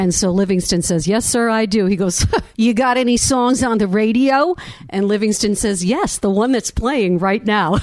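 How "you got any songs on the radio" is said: put-on New York accent, pitched up. Retelling a story, voicing a man questioning a guitarist, in a New York accent. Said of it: "the guy says to him in a New York accent".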